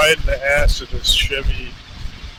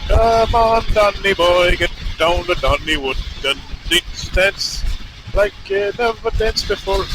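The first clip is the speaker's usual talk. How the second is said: badly faked Irish accent, opening strong then fading; failed Irish accent; 2 semitones higher than usual. Rider practising alone before giving up, failed Irish accent. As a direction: belt out the start in poor Irish. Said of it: "I officially can't do an Irish accent".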